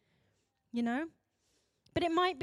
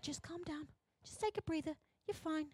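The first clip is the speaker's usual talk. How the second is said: much softer, placating tone; calming; 2 semitones higher, 11 dB quieter than usual. Acted. Society squashing big emotion, soft and placating. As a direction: hush them down. Society soothing, set against warning.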